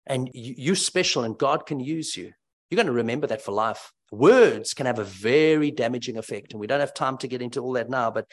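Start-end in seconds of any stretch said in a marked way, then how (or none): 0.1-2.3 encouraging teacher. Retold or imitated. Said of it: "a primary school teacher that built them up and said".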